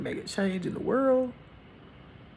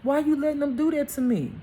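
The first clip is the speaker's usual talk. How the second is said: higher-pitched questioning of God; pleading with God; 6 semitones higher than usual. Acted. Believer asks God why this was allowed, pleading. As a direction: plead upward, asking why. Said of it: "you gonna be like".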